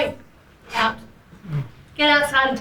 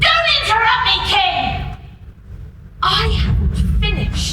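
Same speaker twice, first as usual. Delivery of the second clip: sharp, raised voice; angry snap; 5 semitones higher than usual. Acted. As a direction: cut him off hard. Boss snaps at King.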